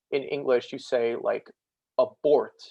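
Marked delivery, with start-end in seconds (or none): 2.0-2.6 "abort" with the "bort" hit louder; stress on second syllable. Shown as a demonstration. Teacher showing students English stress accent, "bort" in "abort" stressed. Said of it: "you just say the bort in abort louder".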